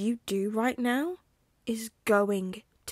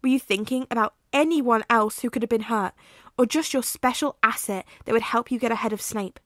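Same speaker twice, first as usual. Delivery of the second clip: furious shouting; 3 semitones higher, 8 dB louder than usual. Acted. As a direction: tear into him, then break off. Remus explodes at Sirius.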